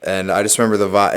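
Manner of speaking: ordinary talk, nothing marked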